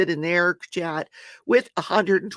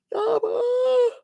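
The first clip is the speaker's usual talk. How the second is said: loud yawn. Real, not acted. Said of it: "made me yawn".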